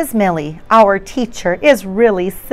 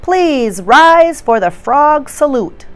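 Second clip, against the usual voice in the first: higher, slow teacher announcement; teacher announcing; 6 semitones higher, 4 dB louder, slower than usual. Acted. Teacher announcing to the class, higher and slow.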